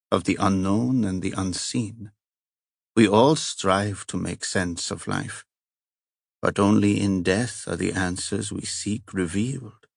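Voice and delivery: put-on heavy Italian accent. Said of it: "the heavy accent".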